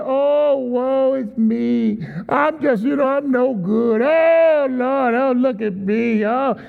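whiny victim. Retold or imitated. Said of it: "they're always complaining".

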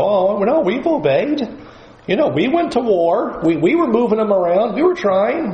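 high, protesting mock excuse; defensive excuses. Preacher voicing us excusing ourselves to God, high and defensive. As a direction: plead your case a bit too hard. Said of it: "we'd sit back and go".

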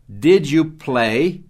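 Did you play? very slow, rising at the end; slow model question. Shown as a demonstration. Teacher slowly models the question with did. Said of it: "colocando o auxiliar did na frente".

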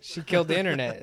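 laughing through the words, quick. Real, not acted. Laughing to friends about Batgirl killing the internet. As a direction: giggle it out fast.

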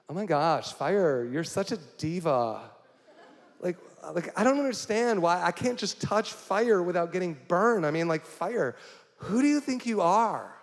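mock Valley Girl diva; Valley Girl impression. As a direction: play a dramatic Valley Girl scolding fire. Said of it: "so that was my Valley Girl impression".

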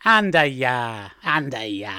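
slow, drawn-out dismissal; disbelieving. Shown as a demonstration. Rejecting a tall story, disbelieving. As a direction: scoff lightly, letting the tune fall. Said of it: "when you want to express disbelief".

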